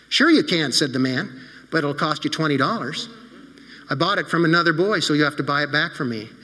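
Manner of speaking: put-on gently paced storytelling for children; story narration. A narrator's reading. Pastor telling the children a story, warm storytelling. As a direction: read it like a bedtime story to kids.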